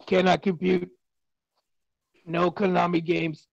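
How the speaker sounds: slow, even robot voice. Pretend. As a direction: talk like a machine. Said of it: "I am a robot".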